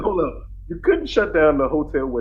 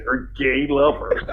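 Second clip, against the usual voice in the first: eighties infomercial voice; slower than usual. Retold or imitated. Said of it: "sounded like an eighties infomercial".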